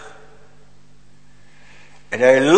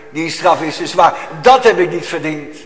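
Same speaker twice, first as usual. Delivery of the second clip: indignant demand; 3 semitones higher, 3 dB louder than usual. Retold or imitated. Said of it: "Maar hij zegt eigenlijk".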